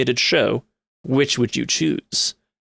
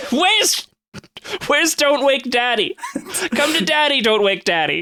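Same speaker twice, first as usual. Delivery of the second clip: high sing-song dog call; calling a pet; 11 semitones higher than usual. Pretend. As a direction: coax the dog over.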